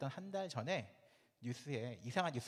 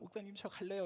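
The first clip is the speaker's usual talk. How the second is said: acted, high, tearful voice, words coming through tears; 8 semitones higher than usual. Retelling the young person arriving to say they will go: imitating someone crying. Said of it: "막 울면서".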